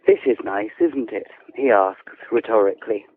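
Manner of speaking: measured, composed narration of a novel; unhurried storytelling with careful phrasing; literary story reading. A narrator's reading. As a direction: read it like an author at a reading.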